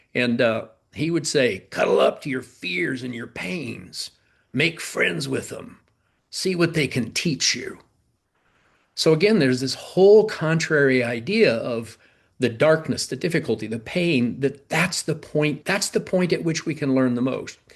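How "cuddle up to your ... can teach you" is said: put-on gravelly man's voice. Quote what Jim would say about fears and pains, in Jim's gravelly voice. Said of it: "he had this gravelly voice".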